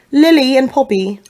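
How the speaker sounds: lightly British names; a hint of British in the names; British accent. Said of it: "I can't do a British accent".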